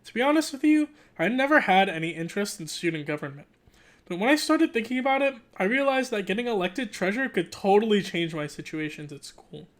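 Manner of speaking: animated read-aloud narration; story narration. Acted. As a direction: read it like a kid's diary, lively. Reads the book aloud.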